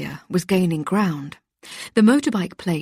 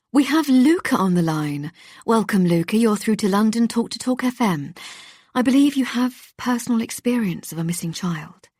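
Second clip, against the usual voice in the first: cheery late-night presenter, lifted a little higher; bright radio host; 4 semitones higher than usual. Acted. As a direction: welcome the caller like a bubbly radio host. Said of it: "The female presenter sounded bright".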